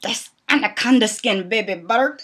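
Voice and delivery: lightly imitated movie-character accent; Jon Voight. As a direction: do a rough impression of an actor's film accent. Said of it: "but Jon Voight, when he was in Anaconda".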